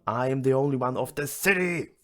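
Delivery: hammy declaring shout; mock scream. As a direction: call it out over the city. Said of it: "stand on the roof of the house and scream".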